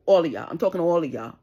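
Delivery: loud, furious call-out; shouting them out. Real, not acted. Mother to the whole crew, a furious shout.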